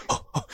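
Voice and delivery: voiceless gasped "oh, oh"; mimicked gasps. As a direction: imitate someone caught off guard, all breath. Mimics a man bracing to tackle.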